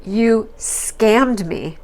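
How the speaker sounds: slow, drawn-out mock accusation; frustrated wife, slowly accusing her husband. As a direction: spell out each word of the charge. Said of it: "she says".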